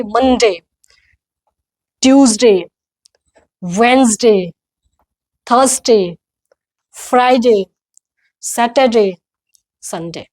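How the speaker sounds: each day falling, spaced out, "वेडनेसडे" as WENZ-day; repeat-after-me drill. Shown as a demonstration. Teacher leading learners aloud, "थर्सडे" as THUHS-day, evenly spaced. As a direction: say "मंडे" to "संडे" one by one, pausing for repeats. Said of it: "मेरे साथ बोलिए".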